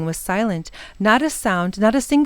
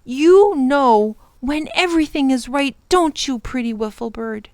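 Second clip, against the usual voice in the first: lightly voiced, higher boy, softening at the end; admiring boy; 5 semitones higher than usual. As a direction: praise a pet bird. Ben praises the wiffle bird.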